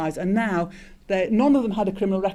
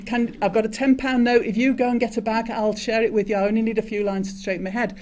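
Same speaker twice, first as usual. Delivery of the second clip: attempted Glasgow accent; 3 semitones higher than usual. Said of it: "I can't do a Glasgow accent".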